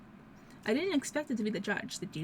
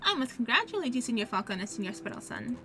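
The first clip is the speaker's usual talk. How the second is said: put-on old Italian accent. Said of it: "using that old accent".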